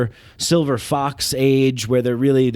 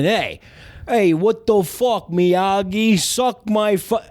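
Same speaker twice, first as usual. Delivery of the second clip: higher, cocky New York tough-guy jeer; brash tough guy voice; 5 semitones higher than usual. Retold or imitated. Comic pitching his remake, mocking Miyagi as a brash thug. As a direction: sneer it at Miyagi like a loudmouth. Andrew Dice Clay pitch as Karate Kid.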